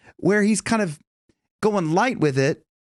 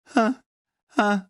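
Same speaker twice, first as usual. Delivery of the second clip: breathy huh; 7 semitones higher than usual. Shown as a demonstration. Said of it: "letting a little bit of air".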